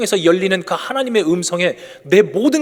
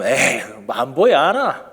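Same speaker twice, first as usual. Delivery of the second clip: dismissive Gyeongsang retort; 4 semitones lower than usual. Retold or imitated. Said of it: "이러고 딱 고개를 돌려요".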